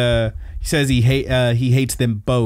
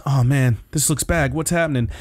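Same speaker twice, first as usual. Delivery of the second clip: lightly voiced worried hero, a bit higher; a touch of concern, retold; Midoriya; 3 semitones higher than usual. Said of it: "And Midoriya says".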